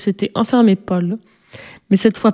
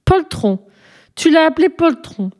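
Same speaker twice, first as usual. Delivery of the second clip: pitched up, shocked repeat of poltron; can't believe she called him that; outraged disbelief in a high voice; indignant surprise; 7 semitones higher than usual. A narrator's reading. Indignant echo of the insult.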